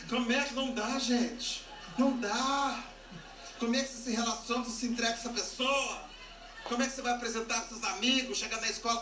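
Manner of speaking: scandalised questioning; comic exasperation. Acted. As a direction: plead in hammed-up disbelief. Acted outrage about dating him.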